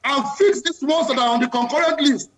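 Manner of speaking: fed-up passion, pitch pushed up; impassioned. Real, not acted. Panelist tired of restructuring talk, impassioned. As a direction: demand it like you are sick of waiting. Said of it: "I can tell from the passion in your voice".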